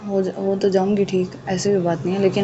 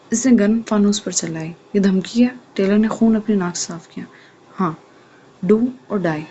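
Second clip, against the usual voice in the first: steady, expressive novel reading; story narration. A narrator's reading. Narrator reading the episode to listeners, storytelling voice. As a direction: read the chapter to listeners.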